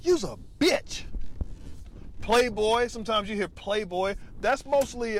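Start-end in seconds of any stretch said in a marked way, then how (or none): 0.0-1.0 fighting words. Shown as a demonstration. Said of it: "Y'all fighting after that shit".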